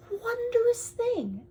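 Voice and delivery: slow, high breathy whisper of wonder; hushed marvelling whisper; awed whisper. Acted. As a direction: savour the word in awe. Awe-filled slow reading.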